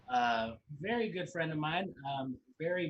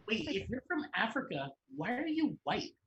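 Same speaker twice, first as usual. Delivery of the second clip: put-on Mean Girls quote; 6 semitones higher than usual. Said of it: "now we're just quoting Mean Girls".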